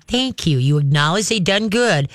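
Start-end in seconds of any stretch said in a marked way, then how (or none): 0.1-0.6 calm thank you. Shown as a demonstration. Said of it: "then you just very calmly".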